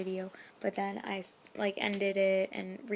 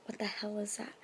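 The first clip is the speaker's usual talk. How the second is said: hushed whisper of a startled sleeper; 5 dB quieter than usual. Retold or imitated. Woken by booms at night, a whisper. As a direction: whisper it, half awake and unsure. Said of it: "I woke up and I was like".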